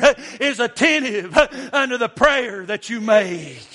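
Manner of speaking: cadenced revival preaching with punched phrase ends; rhythmic preaching. Real, not acted. Preacher urging worried believers that God knows, rhythmic preaching. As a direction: preach in driving bursts, catching breath on "uh".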